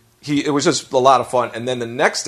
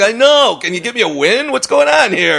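mock pleading; 9 semitones higher than usual. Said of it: "I'm like".

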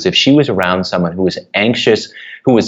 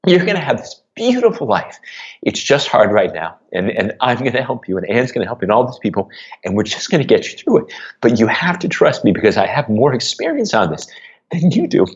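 tearing up. Real, not acted. Father promising his struggling daughter a beautiful life, tearing up. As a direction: comfort her while fighting back tears. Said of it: "apologies if it's hard. Here it is".

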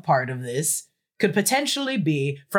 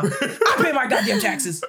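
laughing mock outrage; 5 semitones higher than usual.

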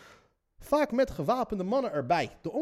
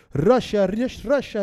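loud, raised mock interrogator's yell; retold shouting; 3 semitones higher, 5 dB louder, slower than usual. Soldiers accusing the captive of spying, retold shouting. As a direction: imitate captors calling out an accusation. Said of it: "als zij riepen".

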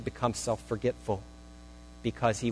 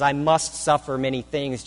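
"must" leaned on, a little louder; stress on must; 2 semitones higher, 5 dB louder than usual. Shown as a demonstration. Preacher driving home necessity, stress on "must". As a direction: keep pressing the word "must". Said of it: "The emphasis here is on the absolute necessity".

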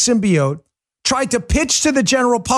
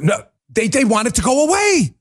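normal talking voice

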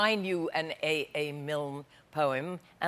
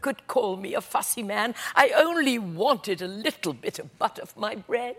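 whimpering. Acted. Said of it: "he whimpered".

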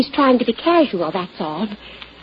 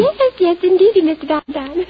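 flustered eagerness; 7 semitones higher than usual. Acted. Flustered admission of secret engagement.

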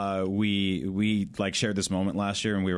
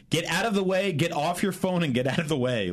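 mock yell, pitched higher; retold yell; 7 semitones higher than usual. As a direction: imitate someone yelling to clear a path. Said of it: "Max yelled like".

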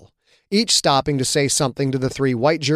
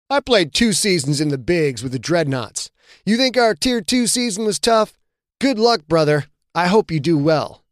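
smirking; 4 semitones higher than usual. Acted. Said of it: "Pearson's smirk".

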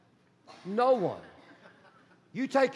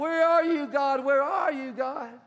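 pleading cry; 4 semitones higher, slower than usual. Acted. Sulking prayer, calling out.

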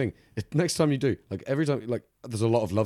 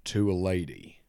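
put-on low generic Southern US accent; Kentucky accent; 5 semitones lower, slower than usual. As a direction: read it in an amateur Kentucky drawl. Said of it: "in your best Kentucky accent".

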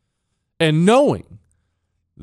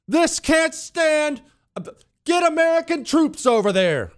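mock outraged hawk; 13 semitones higher than usual. Host mocking people who demand troops, high hammed-up voice. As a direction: parody a pompous war cry.

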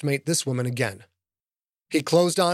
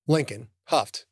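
ordinary delivery, nothing marked

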